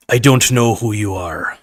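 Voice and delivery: put-on light Sean Connery accent reading a movie line; hint of Sean Connery drama; Sean Connery impression. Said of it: "so I'm doing this as, as Sean Connery".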